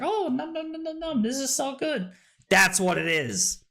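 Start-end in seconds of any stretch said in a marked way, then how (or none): 0.0-2.1 higher, a hint of a happy taster; mock tasting. Streamer imitating someone tasting the drink. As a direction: num num like savouring a treat. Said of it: "it's like".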